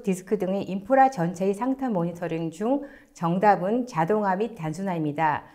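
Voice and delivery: ordinary delivery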